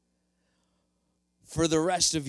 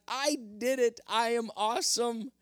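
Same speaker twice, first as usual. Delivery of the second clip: excited; 8 semitones higher than usual. Acted. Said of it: "He's like".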